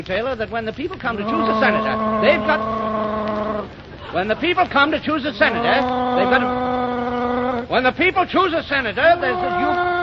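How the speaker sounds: rising to a big stump-speech finish; pompous campaign speech. Acted.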